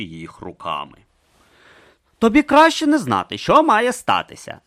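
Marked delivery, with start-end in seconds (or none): 2.2-4.6 higher, louder, falling warning on "що"; warning Urn. Acted. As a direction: warn him gravely. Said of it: "застеріг Урн".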